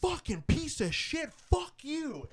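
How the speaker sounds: high-pitched mock rage at the game; retold yell. Retelling own outburst after getting killed, high angry yell. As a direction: yell it out like a gamer who just got killed. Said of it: "so I just yell".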